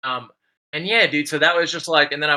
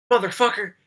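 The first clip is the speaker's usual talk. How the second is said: high, heated retold scolding; 5 semitones higher than usual. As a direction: tell him off like he's risking your corner. Dealer scolding him on street.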